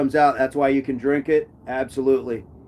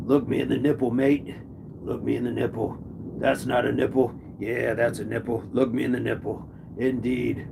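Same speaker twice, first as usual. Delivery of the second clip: put-on terrible Australian accent; 3 semitones lower, 5 dB quieter than usual. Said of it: "Terrible accent".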